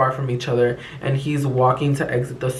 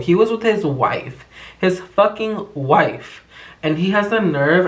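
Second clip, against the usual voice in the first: outraged; 4 semitones higher than usual. Real, not acted. Outrage at him with his wife.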